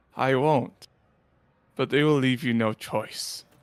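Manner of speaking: eerily composed, strangely calm, almost human monster voice. Narrator voicing a monster answering a player who draws a weapon, strangely calm, almost human. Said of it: "The monster's voice becomes strangely calm".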